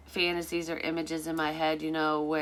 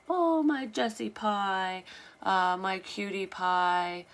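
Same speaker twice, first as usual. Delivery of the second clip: put-on higher, slow cooing baby talk; 4 semitones higher, slower than usual. Ex imitating his pet names in a slow, higher baby voice. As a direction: coo the pet names slowly, as if to an infant. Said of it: "he would say it in a baby voice".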